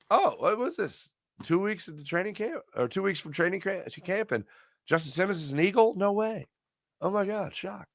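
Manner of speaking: high, soft feigned astonishment; mock surprise. Host imagines hearing of the signing, mock surprise. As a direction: play hushed, high-pitched fake shock. Acts out reacting to future signing.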